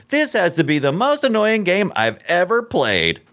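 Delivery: high, fast mock reviewer voice; reading a review. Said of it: "who says".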